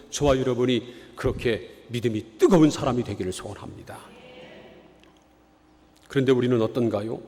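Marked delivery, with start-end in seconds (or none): none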